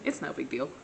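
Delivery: imitating a friend being casual; mock nonchalance. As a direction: toss it off as a mock shrug. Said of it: "you calm, nonchalant, casual about it".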